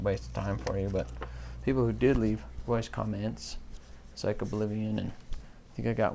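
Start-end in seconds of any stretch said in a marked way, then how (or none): 2.7-3.6 comments said com-MENTS, weight on the last syllable; wrong-syllable stress. Shown as a demonstration. Podcaster naming who left them, stress on com-MENTS. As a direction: put the stress at the end of comments. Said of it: "stress the wrong syllable".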